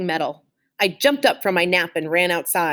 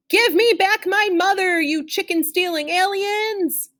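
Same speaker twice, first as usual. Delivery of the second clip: furious battle cry; 11 semitones higher than usual. A narrator's reading. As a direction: blast the aliens. Chick attacks the barbecue.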